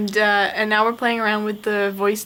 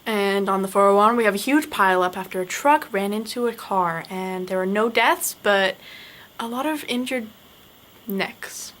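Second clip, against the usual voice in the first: news report. Shown as a demonstration. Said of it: "You'd make a great reporter".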